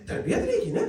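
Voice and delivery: high, lamenting exclamation; anguished cry. Real, not acted. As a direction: cry out in grief. Lament over upbringing. (بلند دردناک پکار)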